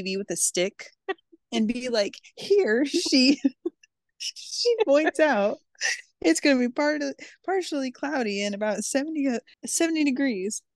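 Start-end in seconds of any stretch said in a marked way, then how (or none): 2.4-10.6 mock weather reporter. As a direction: point at the TV and forecast.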